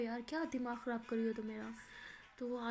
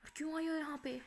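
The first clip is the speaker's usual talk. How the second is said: angry; 2 semitones higher, 4 dB louder, faster than usual. Acted. Hurt Maya orders her friend out, angry. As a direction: throw her out angrily. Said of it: "माया बहुत गुस्सा करती है".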